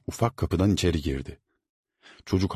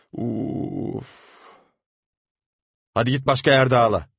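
high, loud dismissive order; impatient shooing; 6 semitones higher, 4 dB louder than usual. A narrator's reading. Servant shooing the crying boy away. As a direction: brush him off.

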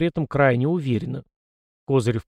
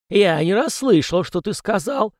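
cold, slow disdainful hiss; hissed through teeth; 8 semitones higher, 4 dB louder than usual. Acted. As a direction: spit it out with contempt. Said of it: "и процеди". (процедить сквозь зубы)

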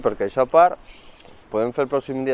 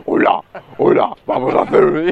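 put-on creepy child; 4 dB louder than usual. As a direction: greet like a haunted little girl. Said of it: "soy una niña poseída".

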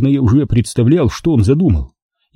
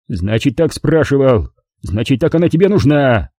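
grumbling; 2 semitones higher than usual. Acted. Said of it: "забрюзжал он".

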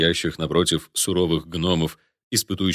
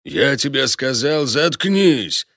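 roaring; 6 semitones higher, slower than usual. A narrator's reading. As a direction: bellow shut up. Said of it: "заревел гном".

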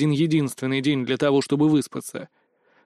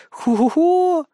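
high mischievous giggle; sly laugh; 12 semitones higher, much slower than usual. Acted. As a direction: cackle like a gossip with a scoop. (высокий хитрый смешок)

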